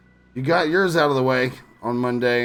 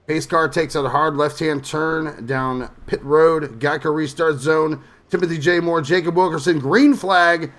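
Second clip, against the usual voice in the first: big, loud, higher home run call; baseball announcer voice; 5 semitones higher, 7 dB louder than usual. Acted. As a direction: bellow it like a ballpark announcer going wild. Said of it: "I'm not gonna do the baseball announcer voice".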